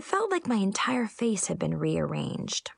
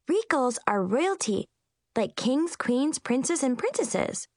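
lightly voiced young girl; Lollipop Girl; 6 semitones higher than usual. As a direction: list it like a know-it-all kid. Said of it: "said Lollipop Girl".

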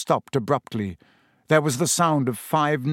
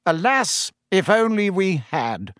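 bitter; 7 semitones higher than usual. Acted. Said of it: "said Fudge bitterly".

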